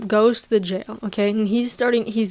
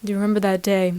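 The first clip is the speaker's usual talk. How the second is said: lightly voiced villain reveal; Baby Yoda turning mildly sinister on the Earth people; 2 semitones lower than usual. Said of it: "grows a very sinister tone".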